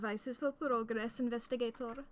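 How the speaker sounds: hammy exaggerated Italian accent; cartoonish Italian accent, grand and theatrical; over-the-top Italian accent. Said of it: "since I couldn't do an Italian accent".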